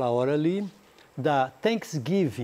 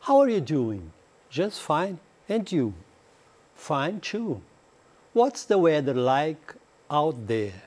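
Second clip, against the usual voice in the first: slow, careful English dialogue for learners; slow dialogue reading; slower than usual. Acted. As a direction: read each line out clearly for students to repeat. (leitura lenta e clara do diálogo)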